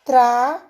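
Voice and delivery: TRA alone, held and set apart; isolated syllable. Shown as a demonstration. Teacher repeating the first syllable for pupils, TRA set apart. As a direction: say TRA as one separate, firm syllable. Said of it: "só uma sílaba".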